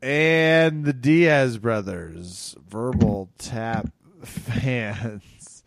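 very slow, drawn-out announcement; announcer sign-off. Acted. Host signing off the Diaz brothers, drawn-out announcer voice. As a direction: stretch every word like a showy emcee.

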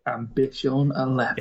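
badly faked German accent; attempted German accent. Reading out the event's name, attempted German accent. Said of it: "I can't do a German".

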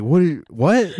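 high, loud stunned disbelief; shocked mom. Retold or imitated. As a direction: recoil in horror at the question. Mom shocked by kid's question.

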